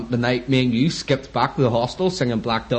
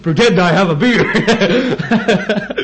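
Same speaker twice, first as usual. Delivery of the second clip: slow, high mock German accent; hammed-up German, drawn out through laughter; 5 semitones higher, 4 dB louder, much slower than usual. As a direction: imitate the German guy, slowly and higher. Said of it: "your German accent".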